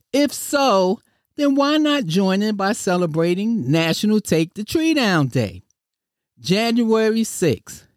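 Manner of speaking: lightly hammed-up ad pitch voice; infomercial host. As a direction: sell it like a cheesy TV ad. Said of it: "in my greatest infomercial voice".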